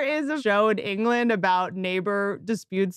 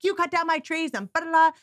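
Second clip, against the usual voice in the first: higher-pitched mock-angry confrontation; retold pissed off; 6 semitones higher than usual. Confronting the neighbour who cut his trees, retold anger. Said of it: "I'm so pissed off".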